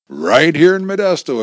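Right here in Modesto said flat and firm with a falling close; firm assertion. A narrator's reading. Agent confirming the wife's fearful question, firmly. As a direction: state Right here in Modesto as settled fact. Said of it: "averred Wright".

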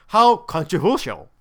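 deadpan sarcasm; mock how shocking it is, understated; sarcastic. Real, not acted. Reviewer pokes fun at a plot twist, dryly sarcastic. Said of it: "I'm being sarcastic".

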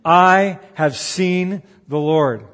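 loud, drawn-out exclamation, each word weighted; exclamatory announcement. Retold or imitated. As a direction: proclaim it slowly and emphatically. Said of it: "told them with an exclamation point".

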